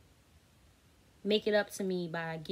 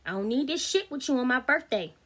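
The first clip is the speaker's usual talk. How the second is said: retold telling-off; 2 semitones higher, 3 dB louder than usual. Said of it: "And I told him, I said".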